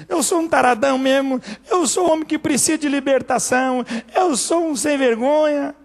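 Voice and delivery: confessing sinner. Acted. Preacher voicing a sinner confessing, a touch tearful. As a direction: own up to it, half choking.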